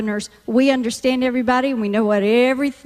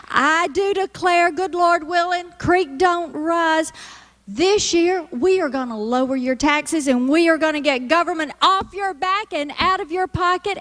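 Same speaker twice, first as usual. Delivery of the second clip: higher campaign-trail Southern stump voice; Southern politician speech; 3 semitones higher than usual. Shown as a demonstration. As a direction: work the crowd like a Southern candidate. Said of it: "this is how Southern speak goes in action".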